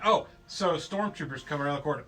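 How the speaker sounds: ordinary delivery, nothing marked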